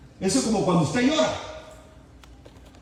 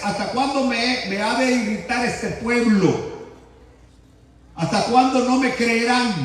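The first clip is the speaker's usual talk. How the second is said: medio bravo. Shown as a demonstration. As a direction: read it half angry, like a scolding. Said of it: "Yo estoy hablando medio bravo". (un poco bravo, regañando)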